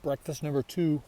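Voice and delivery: talking while chewing food; words round a mouthful. Real, not acted. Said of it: "Sorry, I'm chewing".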